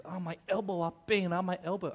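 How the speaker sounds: mock complaint in a Singaporean accent; Singaporean auntie accent. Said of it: "one of those old Singaporean aunties".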